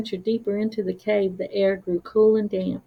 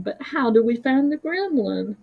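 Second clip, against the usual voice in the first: determined; 4 semitones higher than usual. Acted. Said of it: "his voice determined".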